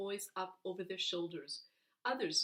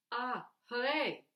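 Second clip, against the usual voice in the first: slow, loud joyful cheer; shout; 4 semitones higher, 6 dB louder than usual. Acted. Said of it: "I shout".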